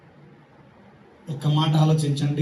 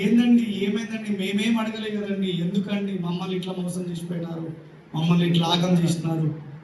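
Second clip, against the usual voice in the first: wailing wife. Retold or imitated. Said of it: "వాళ్ళ wife ఏడుస్తుంది".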